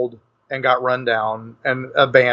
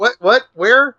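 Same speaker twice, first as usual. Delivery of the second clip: startled stammer; 9 semitones higher than usual. Retold or imitated. Startled after ghost vanishes.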